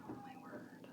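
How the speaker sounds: a high, thin, breathless gasp of disbelief; squeaky disbelief. Retold or imitated. A mom hearing the school changed plans again, squeaky disbelief. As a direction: squeak it out in mock shock. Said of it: "And I'm like".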